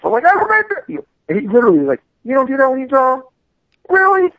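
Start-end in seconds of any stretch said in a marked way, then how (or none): 0.3-0.8 high flustered squeak. Retold or imitated. His flustered answer to Spike. 2.2-4.3 high, louder disbelieving question; incredulous. Retold or imitated. Spike Lee incredulous.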